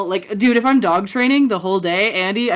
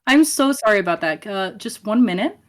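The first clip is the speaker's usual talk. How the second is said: customer service voice. Shown as a demonstration. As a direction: apologize like a polite receptionist. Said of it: "that is so different".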